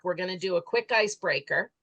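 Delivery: hoarse, tired voice; losing voice. Real, not acted. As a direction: voice starting to give out. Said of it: "I'm already losing my voice".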